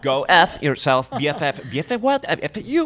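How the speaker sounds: laughing mock insult. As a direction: tease with a playful cuss.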